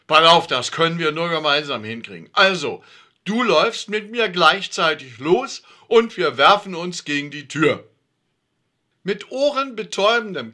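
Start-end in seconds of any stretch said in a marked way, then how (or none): 0.1-7.9 urgent plan. A narrator's reading. Alfred rallies, determined.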